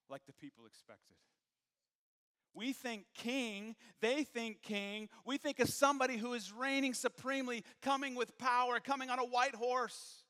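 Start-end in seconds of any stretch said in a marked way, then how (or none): 2.5-10.2 preaching. Acted. Preacher building the kingly image.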